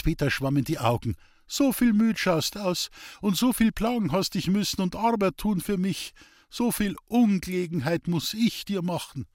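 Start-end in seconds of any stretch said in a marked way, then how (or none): 1.5-9.3 a higher, thinner voice for a grateful sick man; a hint of a frail old man overcome with thanks; lightly voiced sick old man. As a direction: plead gratefully as the ailing man, eyes wet. Hans Peter, the sick man, voiced.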